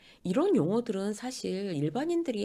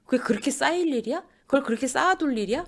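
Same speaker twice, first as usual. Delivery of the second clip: higher-pitched, incredulous questions; flustered disbelief; 6 semitones higher, 4 dB louder than usual. Acted. Startled partner faces years of saved-up complaints, incredulous. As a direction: protest as if caught off guard. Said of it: "상대는 당황해요".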